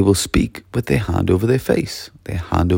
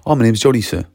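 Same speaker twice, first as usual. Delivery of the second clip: brighter, louder, courteous full-sentence reply; polite pupil answer; 3 dB louder, faster than usual. Shown as a demonstration. Pupil politely tells teacher their name, willing. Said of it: "The response is".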